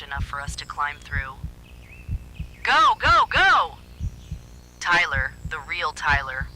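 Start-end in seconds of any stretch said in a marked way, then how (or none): 2.6-3.8 very high, loud frantic yelling; frantic shout. A narrator's reading. Real Tyler pushing friends out the window, frantic. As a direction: scream them toward the exit.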